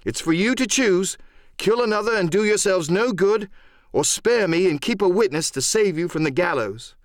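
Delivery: high-pitched, impassioned tirade; worked-up lad's proud confession, rising pitch; excited defiance. Acted. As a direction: throw it all boldly in their faces. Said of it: "by this time I was quite excited".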